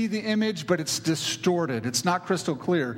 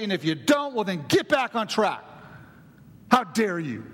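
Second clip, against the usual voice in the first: stern taskmaster God; 4 semitones higher than usual. Retold or imitated. Preacher voicing God as a harsh taskmaster, stern scolding. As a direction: scold like a strict overseer catching fun. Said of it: "he's like".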